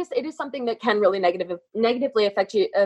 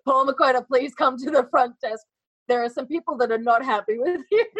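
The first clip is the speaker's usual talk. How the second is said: higher front desk announcement; flat echoey pa page; 5 semitones higher than usual. Pretend. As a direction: page him over the speakers. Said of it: "ask them to call you out".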